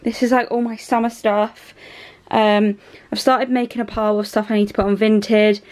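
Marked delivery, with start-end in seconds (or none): 2.3-5.6 breathless from moving clothes; out of breath. Real, not acted. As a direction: talk while winded. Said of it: "Oh my God, I'm out of breath".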